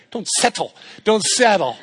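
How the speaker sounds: "Don't settle" in a lightly put-on goofy voice; playful mock voice on the repeat; silly voice. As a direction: toy with the words in a funny voice. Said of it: "I don't know why I'm talking like that".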